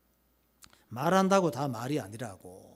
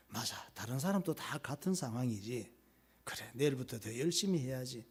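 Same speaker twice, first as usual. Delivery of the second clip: remorseful husband; 3 semitones lower, 4 dB quieter than usual. Acted. Ideal husband admitting fault.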